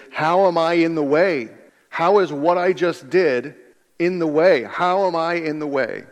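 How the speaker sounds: Peter scrambling. Acted. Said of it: "the question Peter is scrambling to find the answer".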